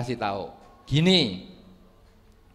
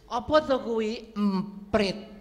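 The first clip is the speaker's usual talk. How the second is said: higher, slow puzzled question; slow old father; 7 semitones higher, slower than usual. Acted. Old father asking his son about the bird, slow and high. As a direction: ask it slowly like a forgetful old man.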